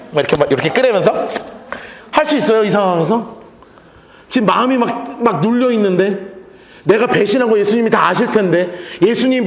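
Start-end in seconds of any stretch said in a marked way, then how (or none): none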